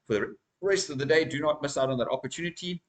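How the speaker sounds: talking through hiccups; words broken by small hiccups; hiccuping. Real, not acted. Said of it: "I'm sorry I'm hiccuping here".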